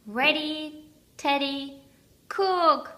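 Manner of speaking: high, bright-eyed and bouncing; delighted laugh. A narrator's reading. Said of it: "laughed Teddy with delight".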